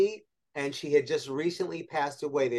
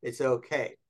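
calm reassurance; 3 semitones lower, 4 dB quieter than usual. Retold or imitated. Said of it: "he was not mad. He didn't yell".

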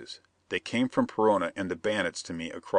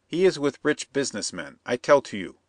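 higher, insistent foreign plotter; scheming Perona; 6 semitones higher than usual. Acted. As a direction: press the bandit, sly and eager.

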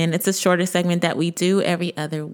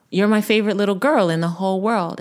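a little louder and quicker; faster than usual. Retold or imitated. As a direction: push it out more, like answering a demand. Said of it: "And then I said it louder".

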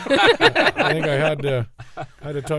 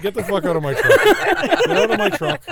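loud, high-pitched mock outrage, building; escalating shout, stretched out at the end; retold angry yell; 8 dB louder than usual. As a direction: yell it like you're kicking someone out. Retold ordering friend out of truck.

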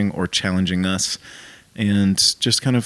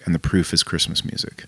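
whispering; 4 semitones lower, 5 dB quieter than usual. Acted. Drops into a stage whisper.

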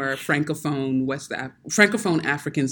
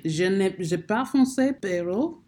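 broken French. Real, not acted. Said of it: "I can't speak French".

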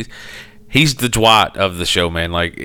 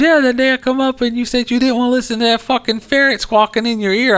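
raised, matter-of-fact friend voice; high mock friend voice; faster than usual. Friend explaining the ferret mix-up in a high voice. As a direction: play her innocently explaining. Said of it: "She goes".

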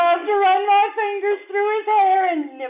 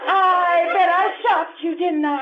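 laughing tease. Acted. Wife teasing the hotel clerk.

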